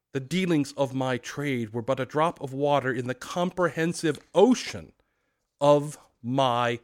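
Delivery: loud, slow, grieving ghost; unearthly voice. Acted. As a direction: proclaim like a tormented spirit. Ghost declares, wringing hands.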